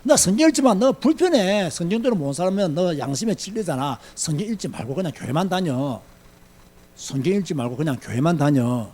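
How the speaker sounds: soft, mostly low tempter's voice; whispering Satan. Acted. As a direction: quietly talk them out of it. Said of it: "사탄이 여러분에게 주는 음성이에요". (낮은 소리로 꼬드기는 사탄)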